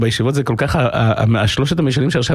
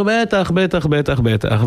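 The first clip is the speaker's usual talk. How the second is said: higher-pitched, dismissive promise; breezy assurance; 3 semitones higher, much slower than usual. Retold or imitated. Son to father before the forest walk, breezy assurance. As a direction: brush off the warning in a boy's voice.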